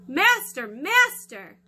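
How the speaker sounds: loud, high cry for help; screamed call. Acted. Harp screaming to wake the giant, loud. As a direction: shriek for the master. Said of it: "when it screamed".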